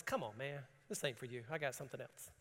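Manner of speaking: a calm, easygoing angel, dropped low; casual angel. Retold or imitated. Angel telling the prisoner to walk out, low and soft. Angel voiced in retold story.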